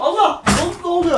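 high frightened cry; panicked cry. Real, not acted. Panicking in scare.

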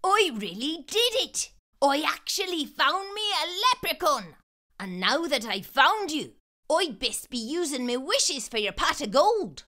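put-on boy who found a leprechaun, thrilled. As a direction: crow over the find.

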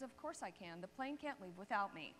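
calm assurance. Retold or imitated. Captain calmly reassures passenger.

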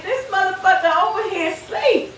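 high, loud, panicky shouting with a laugh breaking in; panicked disciples. Retold or imitated. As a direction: yell it like sailors sure they are about to drown. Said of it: "the disciples are scared as a motherfucker".

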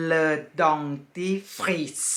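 slow teaching. Shown as a demonstration. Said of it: "เราอ่านว่า".

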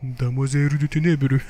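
slow, put-on Japanese accent; hammed-up Japanese accent, drawn out syllable by syllable; mock Japanese accent. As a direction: say it in your finest fake Japanese accent. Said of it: "mon plus bel accent japonais".

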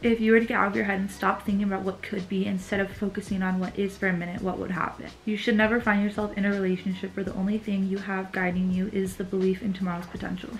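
calm, measured book reading; reading aloud. Acted. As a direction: read the passage softly and thoughtfully. Reads self-help book aloud.

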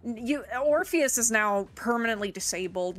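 nerd emoji voice. Retold or imitated. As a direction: play it like a nerdy game master. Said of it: "why are you making them sound like the nerd emoji".

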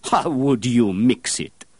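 slow loud demand; demanding master. Acted. Master perfumer demanding of the apprentice, loud and slow. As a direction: force the question out slowly.

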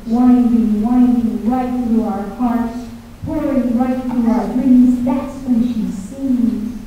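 slow, lyrical poem reading; measured spoken-word delivery; poetic recitation. Acted. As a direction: savor each image slowly.

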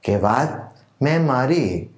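slow, measured verse with lilting, drawn-out phrase ends; ghazal recitation. Acted. Poet presenting his own ghazal to literature lovers, measured recitation. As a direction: recite it like a mushaira poet, letting key words swell and fall.

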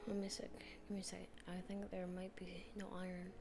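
hushed whisper while exploring. Acted. Sneaking up the mountain, whispering to viewers.

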